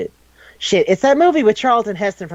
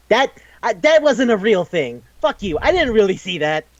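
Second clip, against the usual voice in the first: higher-pitched, mock-indignant protest; indignant denial; 6 semitones higher than usual. Leon denies seeing the dragon, mock indignant. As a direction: act out a flustered denial.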